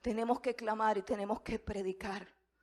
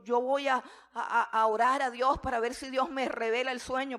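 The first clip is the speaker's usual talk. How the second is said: laughing; 3 semitones higher, 6 dB louder than usual. Acted. Daniel asks for time, laughing.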